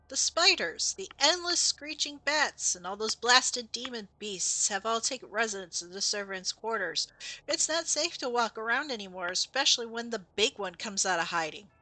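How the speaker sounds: lightly acted ghost character warning of pests; ghost's warning. Ghost warning a player about beasts in the servants' quarters, lightly acted. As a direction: read the ghost's lines with a little drama. Reads game ghost's dialogue aloud.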